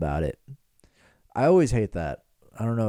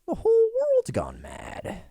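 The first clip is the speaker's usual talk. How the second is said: slow, rising to a high squeaky wail; mock-dramatic slow wail; dramatic lament; 12 semitones higher, slower than usual. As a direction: ham up the despair, climbing high. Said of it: "one of the talking points is just".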